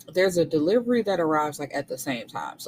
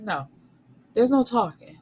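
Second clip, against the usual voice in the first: high, louder final no; flat refusal; 6 semitones higher, 4 dB louder than usual. Retold or imitated. Refusing her husband's plea to talk, loud refusal. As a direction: shut him down hard.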